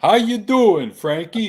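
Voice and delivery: high, loud happy greeting; excited greeting. Real, not acted. Greeting Frankie the dog, high and loud. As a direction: greet the dog with a big lift.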